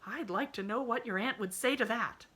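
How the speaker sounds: lightly voiced homespun maid; fussing, chattering servant girl; country housemaid. A narrator's reading. Nancy voiced in story.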